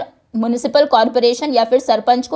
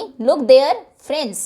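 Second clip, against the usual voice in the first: "there" raised and pressed; stress on there; much slower than usual. Shown as a demonstration. Teacher demoing stress on "there" for the class. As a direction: hit "there" with a rise. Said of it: "यहाँ पर मतलब look there".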